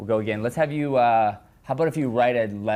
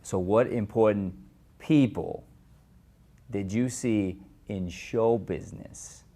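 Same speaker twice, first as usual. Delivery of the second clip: disbelieving; slower than usual. Shown as a demonstration. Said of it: "you're stressing these ideas of".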